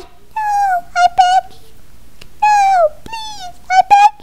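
very high panicked little voice; squeaky pleading. Pretend. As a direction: beg like a tiny victim. Victim pleading in play.

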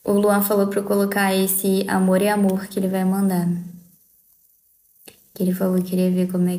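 whispered aside, no voice. Real, not acted. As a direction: lean in and whisper it.

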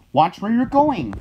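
high, loud little squeak; piped. A narrator's reading. Ant warning hen Henry underfoot, high and loud. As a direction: pipe it up like a tiny ant. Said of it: "piped an ant".

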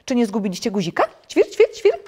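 very high, chirpy little bird voice; chirping sparrow. A narrator's reading. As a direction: chirp loudly between polite, high words. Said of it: "zapytał wróbel".

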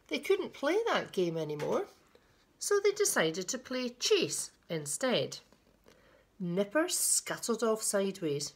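put-on children's picture-book reading, lilting; storyteller pausing between phrases; story narration. A narrator's reading. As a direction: read it to little ones with deliberate emphasis. Reads a picture book aloud.

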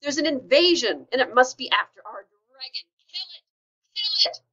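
high, loud panicked yells of a furious crowd; shrill frantic animal mob shouting; angry mob yelling. A narrator's reading. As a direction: scream the alarm like a stampeding mob. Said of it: "all yelling".

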